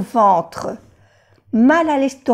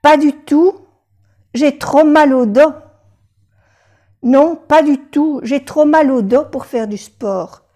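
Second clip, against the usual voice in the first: patient refuses sport to the doctor, hammed-up complaint; complaining patient; 4 semitones higher than usual. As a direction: whine it like a patient in pain. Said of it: "le contesta el paciente".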